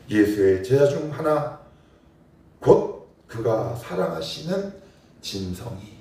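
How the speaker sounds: slow, with 사랑하시는 drawn out and rising; tender slow scripture reading with own name inserted; slow personal reading. Shown as a demonstration. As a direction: read it slowly as if your own name were written there. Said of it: "이 말씀을 저는 이렇게 읽겠습니다".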